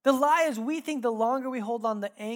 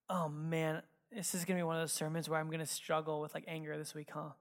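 low, soft resigned grumble to himself; retold dread; 3 semitones lower, 7 dB quieter than usual. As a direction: softly groan at what's coming, as if to yourself. Retold dread while preparing sermon.

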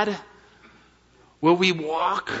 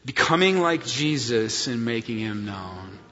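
congregational recitation; 5 semitones lower, 4 dB quieter than usual. Shown as a demonstration. Pastor leading congregation in mission statement, recited. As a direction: lead the church in the mission line. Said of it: "Say it with me".

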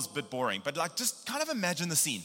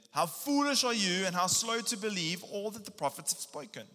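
higher, pointed rebuke; 6 semitones higher than usual. Acted. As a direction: rebuke them, voice lifted high. Jesus rebuking disciples, reading.

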